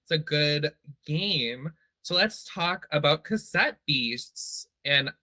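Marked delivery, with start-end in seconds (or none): 2.0-4.7 slow, drawn-out announcer read. Shown as a demonstration. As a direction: introduce it like a show host. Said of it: "make it sound like a real announcer".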